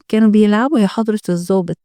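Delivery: fast, offhand and dismissive; cold reply. Acted. Mothers brushing off the detective, cold and fast. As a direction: brush off the officer coolly and quickly. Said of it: "لكنهم ردوا ببرود".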